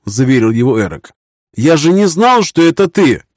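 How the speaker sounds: a hint of a relieved young baron; young knight voice.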